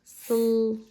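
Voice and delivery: "Sl-" and "at" held long with a gap between; drawn-out sounds. Shown as a demonstration. Teacher sounding out a word for a child, drawn out. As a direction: sound out "Sl-", pause, then "at". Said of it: "drag out each sound".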